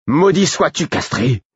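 juron aigu et fort; exaspéré. A narrator's reading. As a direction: maudire l'équipier absent. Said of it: "D'un ton exaspéré". (garde exaspéré)

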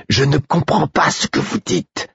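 frustrated yell, pitched far up; exasperated shout. A narrator's reading. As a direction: shout it out, fed up. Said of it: "criai-je, exaspéré".

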